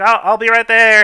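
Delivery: calling out loudly. Voicing a man answering the players' call from behind his door, shouting. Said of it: "Some guy kind of shouts".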